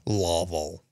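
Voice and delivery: low "Lovell" with an open AH; copying a pronunciation. Shown as a demonstration. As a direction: say "Lovell" as a low LAH-vul. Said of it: "So apparently it's Lovell".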